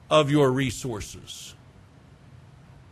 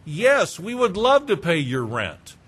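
cheerful yes. Pretend. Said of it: "I could say to them".

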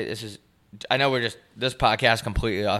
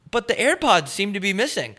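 stiffly polite stranger, pitched up; very formal; 6 semitones higher than usual. Retold or imitated. Podcaster imitating the stranger opening the case, very formal. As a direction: lightly imitate an overly formal, creepy guy. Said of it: "the guy was very formal".

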